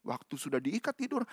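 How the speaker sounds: ordinary talk, nothing marked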